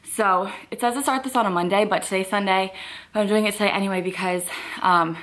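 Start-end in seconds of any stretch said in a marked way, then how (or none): 3.1-5.2 out of breath. Real, not acted. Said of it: "I'm so out of breath".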